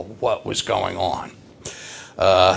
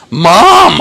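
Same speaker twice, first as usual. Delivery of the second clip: high, loud acted gasp; imitated child's shocked outcry; gasped in horror; 8 semitones higher, 11 dB louder than usual. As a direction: cry out like an appalled child. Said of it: "I gasped, choking back some tears".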